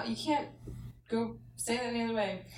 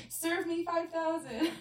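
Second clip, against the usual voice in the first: laughing; 10 semitones higher, slower than usual. Retold or imitated. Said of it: "So I'm just like".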